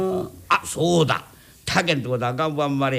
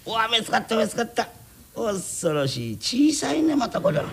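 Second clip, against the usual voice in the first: startled; 6 semitones higher than usual. Acted. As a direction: pitch jumps high in mock alarm. Sees the baby, startled. (びっくりして高い声で)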